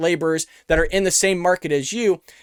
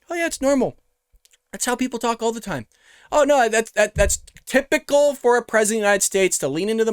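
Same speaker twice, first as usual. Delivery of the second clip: mock news anchor; 3 semitones higher than usual. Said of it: "as if C N N's just gonna be like".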